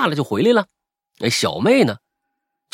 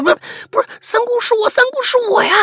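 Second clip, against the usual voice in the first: high, frantic, faster denial; a scared girl begging to be recognized; frightened pleading; 3 dB louder, faster than usual. Retold or imitated. (惊慌地辩解)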